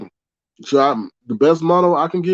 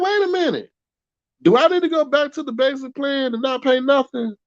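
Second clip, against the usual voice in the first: raised squeaky voice, not full cartoon; half-squeak the worried question; high mock chopper voice; 10 semitones higher than usual. Streamer wondering about the basic plan, in a high mock squeak. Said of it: "chopper voice".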